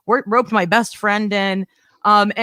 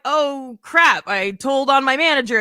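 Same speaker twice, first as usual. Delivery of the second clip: dismayed realization; 4 semitones higher than usual. Retold or imitated. Realizing she told on boss.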